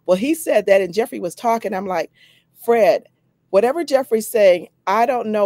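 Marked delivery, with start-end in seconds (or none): 2.6-5.5 eager excitement. Retold or imitated. Eager to join Fred's program.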